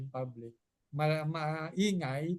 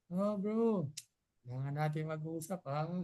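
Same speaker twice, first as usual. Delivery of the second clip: friendly casual. Retold or imitated. Friend calling a brother over for a chat, friendly and relaxed. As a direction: keep it relaxed so nobody is worried. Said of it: "Pero pag".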